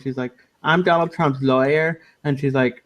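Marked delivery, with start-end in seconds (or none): 0.6-2.0 slow, lightly imitated monotone Jewish voice; a hint of monotone Jewish accent, drawn out. Retelling a sketch's press conference lawyer, monotone Jewish voice. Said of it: "in a really monotone Jewish voice".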